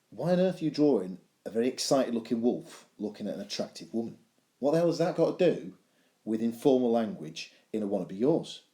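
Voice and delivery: mock exasperated student's question; baffled student. Student questions teacher's odd wolf drawing, mock exasperated. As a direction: challenge the teacher in pretend disbelief.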